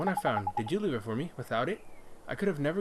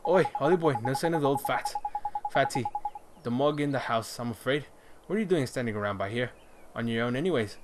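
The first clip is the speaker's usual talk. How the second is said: a light cockney lad calling out; cockney character. Acted. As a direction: hail the boy like a cheeky cockney. Voices Drippy character.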